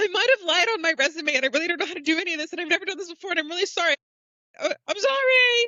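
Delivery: very high, shrill, panicked rambling. Retelling a story where she panics after getting healed, imitating someone's panicked rambling. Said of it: "she's like kind of having a little panic attack".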